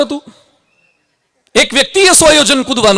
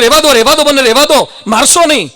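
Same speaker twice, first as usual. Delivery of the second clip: frightened plea; 3 semitones higher than usual. Acted. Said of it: "પેલું બૂમ પાડવા માંડ્યું".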